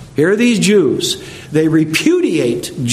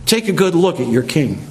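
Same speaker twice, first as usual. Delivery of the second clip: sneering; 3 semitones higher than usual. Acted. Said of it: "And he sneers at them".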